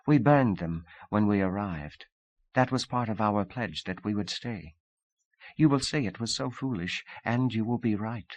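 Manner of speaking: lightly voiced Russian woman, composed; Sonia, hint of accent.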